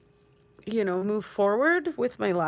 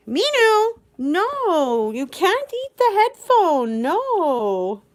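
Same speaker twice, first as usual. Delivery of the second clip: high, loud alarmed yell; shout; 8 semitones higher, 7 dB louder, slower than usual. Real, not acted. Yelling at Minu to stop chewing the headphone.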